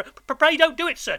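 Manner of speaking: stammering, high-pitched frightened plea; loud, desperate begging; pleading in terror. A narrator's reading. Boy pleads with the convict, stammering in terror. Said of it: "I pleaded in terror".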